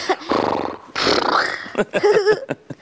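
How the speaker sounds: breath blown through loose lips; horse snorting. Acted. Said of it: "And a horse says".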